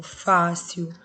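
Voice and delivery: fácil said slowly and clearly; fácil slowly, for the class; slow example word. Shown as a demonstration. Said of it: "terminada em L".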